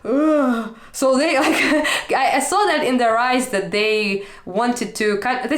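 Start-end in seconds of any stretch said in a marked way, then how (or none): 0.0-0.8 exasperated groan. Retold or imitated. Friends' reaction being retold.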